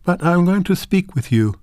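a shy grandmother finding her nerve; gathering confidence. Acted. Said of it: "She gathered confidence".

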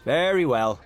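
amiably. A narrator's reading. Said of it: "said Gabriel amiably".

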